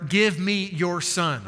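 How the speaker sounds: slow emphatic quote. Shown as a demonstration. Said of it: "underline that simple phrase".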